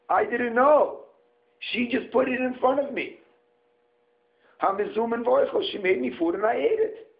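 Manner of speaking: a hint of an innocent man pleading; Adam's innocent excuse. Adam excusing himself to God, mildly pleading innocence. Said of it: "intention is to say to the Ribono Shel Olam like this".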